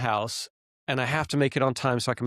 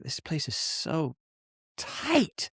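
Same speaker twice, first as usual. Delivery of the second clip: mock whine; 4 semitones higher, 4 dB quieter, much slower than usual. Driving in the crowded city.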